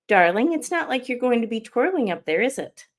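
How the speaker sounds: light imitation of a posh English accent; a hint of an English lady's dry teasing. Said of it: "she said in her perfectly amazing English accent".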